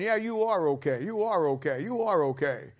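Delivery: a hint of the devil soothing you; devil's coaxing. Devil behind you lulling the sinner, softly coaxing. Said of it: "The devil's walking around right behind you saying".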